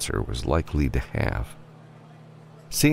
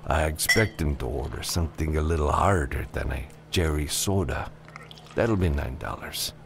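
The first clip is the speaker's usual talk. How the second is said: lightly voiced bartender, a touch softer; amused saloon bartender; 3 dB quieter than usual. Bartender teasing an out-of-town customer, lightly amused. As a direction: play a wry barkeep lightly.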